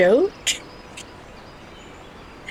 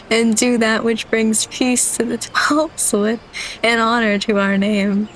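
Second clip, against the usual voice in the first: holding in laughter; 4 semitones higher than usual. Real, not acted. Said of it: "I'm trying so hard not to cry".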